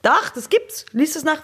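indignant insistence. Real, not acted. Insists against listener calling bullshit.

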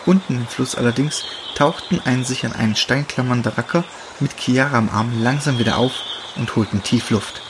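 usual speaking voice

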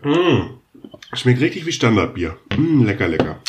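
tasting the beer with a smack; a sip, then a savouring mm; mukbang. Real, not acted. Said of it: "Ich trinke jetzt mal einen Schluck". (nach dem Schluck Bier genießerisch schmatzend)

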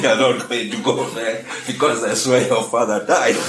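words broken by laughter; laughing. Retold or imitated. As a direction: say it while laughing. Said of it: "laughing myself sick".

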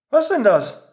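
a hint of a baffled girl; mock puzzled. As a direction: sound baffled and thrown. Surprised reaction, mock puzzled.

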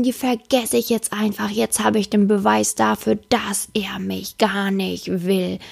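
a touch of a hurt, suspicious woman brooding; lightly voiced offended girlfriend; angry woman's thoughts. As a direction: mutter the bitter conclusion, slowing down. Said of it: "denken sich".

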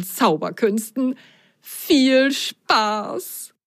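slow ringmaster announcer voice; proud announcement. Acted. Circus announcer proudly presenting the magician. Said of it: "stolz verkündete".

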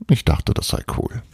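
put-on boy grumbling after Annie's flat reaction; grumbling mutter. A narrator's reading. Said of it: "brummelte er".

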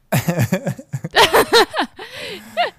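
loud high laughing fit; burst of laughter. Real, not acted. (lauter Lachanfall)

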